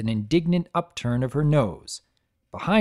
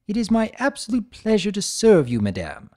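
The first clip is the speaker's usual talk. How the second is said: twitchy waiter voice; 8 semitones higher, 3 dB louder than usual. A narrator's reading. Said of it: "the waiter said with a slight twitch".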